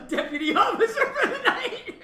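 high, loud burst of laughter through the words; real laughing. Real, not acted. Teasing cops about deputizing Mike, laughing hard. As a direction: crack up while delivering the punchline. Cracking up at own joke.

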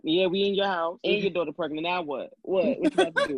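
taunting. Retold or imitated. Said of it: "y'all basically was like".

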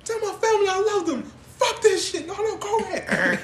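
high, hammed-up cry of despair; squealing fake panic; mock desperate farewell. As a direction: wail it as comic last words. Plays a hammed-up farewell scene.

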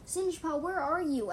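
high, loud searching call. A narrator's reading. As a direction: call out for someone missing. Calling for missing friend.

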